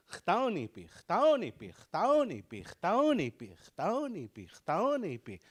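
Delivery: mock self repeating the word. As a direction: play yourself muttering the word while walking around. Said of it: "That's me walking around".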